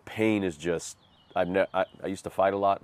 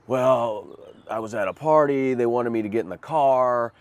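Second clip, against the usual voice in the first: put-on higher, a little louder, innocent drunk excuse; playing the good drunk; 5 semitones higher, 4 dB louder than usual. Man talks to policeman as polite, slightly louder innocent drunk. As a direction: act sober and polite to the cop. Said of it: "tried to play the good drunk".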